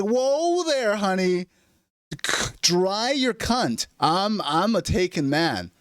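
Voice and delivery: high, slow, hammed-up prude; mock prudish man. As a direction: recoil in mock horror, drawing it out. Mock prudish man rejecting girl.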